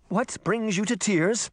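high-pitched, tentative servant; nervous. A narrator's reading. Merman asks the princess why she cries, nervous. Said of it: "the skinny merman said nervously".

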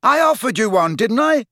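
high, defensive yell; indignant shout. Acted. Dangling lad defending himself, indignant shout. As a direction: protest loudly and indignantly. Ron keeps shouting back.

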